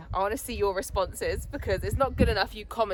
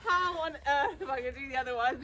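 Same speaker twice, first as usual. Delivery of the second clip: out of breath; 8 semitones higher than usual. Real, not acted. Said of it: "I'm out of breath".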